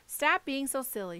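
a mild, lightly voiced snap; mother mildly snapping at her fretful child; snapped. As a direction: brush the worry off sharply. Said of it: "she snapped".

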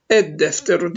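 "Ed-defteru" with a held double D; no L in the article, double the D in "Ed-defteru"; silent lam, doubled D. Shown as a demonstration. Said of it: "lam okunmuyor".

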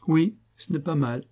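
flattered. A narrator's reading. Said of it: "dit Fulcran flatté".

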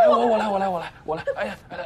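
loud, hurried offers to help; flustered shout, I'll do it; flustered rush. Acted. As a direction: jump in to fix the mess. Husband rushes to help.

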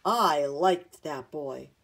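loud, slow, swelling exultation; excited cry. A narrator's reading. Grandfather realising the runner is his grandson, excited cry. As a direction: proclaim it with mounting amazement, stretching the words. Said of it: "cried the man".

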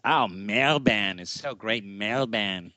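slow, gushing mock Australian "Melbourne"; light Australian put-on, drawn out slowly; mock Australian accent. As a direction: tease the Aussie friend's way of saying "Melbourne". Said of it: "kind of mocking the Australians and how they say it".

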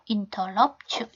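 "interrupt you" with the t linked into you, sounding like interrup-chu. Shown as a demonstration. Teacher showing the linked sound, softly. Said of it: "T 사운드 이쪽으로 연음하셔서요".

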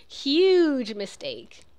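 slow drawn-out "Huge mistake"; movie quote. Retold or imitated. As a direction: stretch out "Huge mistake" smugly, like the film line. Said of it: "It's from Pretty Woman".

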